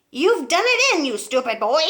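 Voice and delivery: high, loud scolding yell; angry shout. Acted. Grandma scolds George from the roof, loud and high. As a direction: scold the boy. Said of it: "Grandma shouted".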